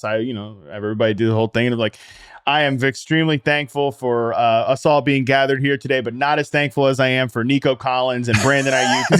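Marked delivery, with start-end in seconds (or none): 2.5-9.0 sarcastic grace. Retold or imitated. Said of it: "being a sarcastic jackass".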